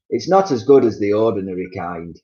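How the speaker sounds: talking through food; mouth full. Acted. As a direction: chew through the words. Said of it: "talking with his mouth full".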